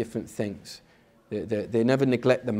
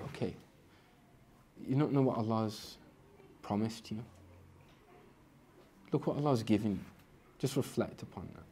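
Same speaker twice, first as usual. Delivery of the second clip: gentle self-reminder; 6 dB quieter than usual. Retold or imitated. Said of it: "give it a bit of".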